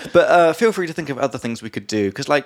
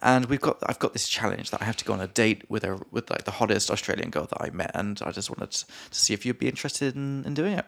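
pretend pickup pitch; 5 dB quieter than usual. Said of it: "I could be like".

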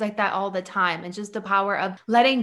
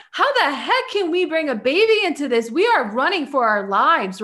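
higher-pitched voice of a stressed body; mock alarm; 4 semitones higher than usual. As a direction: act out the body's alarmed protest, lightly. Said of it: "in this flight or fight mode".

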